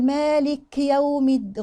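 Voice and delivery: "مالك يوم" with the kaf's i slurred; faulty kaf vowel. Shown as a demonstration. Teacher shows the mistake to avoid, kasra lost. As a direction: rush past the kasra in "مالك". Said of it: "ما ينفعش أقول".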